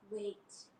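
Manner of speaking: fast, firm command; commanding mom. Acted. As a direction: take charge of family. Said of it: "Mama said".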